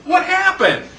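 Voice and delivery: high, baffled "what happened"; bewildered. Retold or imitated. Canoeist left stranded on a dry riverbed, high and baffled. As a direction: play the stranded canoeist, totally lost. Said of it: "You're gonna be sitting there going".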